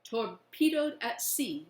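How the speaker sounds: all nod along together; slow agreeing chorus. Acted. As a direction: boys agreeing as one. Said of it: "we all agree".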